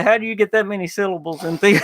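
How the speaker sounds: quick, breaking into laughter; retold astonishment collapsing into laughs; amused amazement. Volunteer marvels at the pastor's syllables, laughing.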